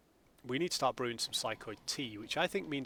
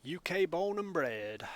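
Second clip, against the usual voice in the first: "U K born and bred" in a slow, higher, put-on foreign accent; a mock foreign accent, tongue in cheek; non-UK accent; 6 semitones higher, slower than usual. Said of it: "he said in a non-U K accent".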